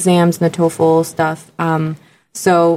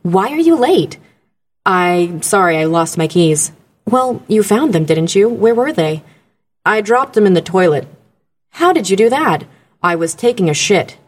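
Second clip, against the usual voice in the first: voiceover dialogue read. Retold or imitated. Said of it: "this dialogue is a".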